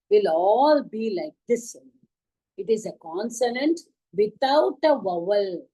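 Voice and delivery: slow teacher voice, deliberate; slow classroom explanation. Acted.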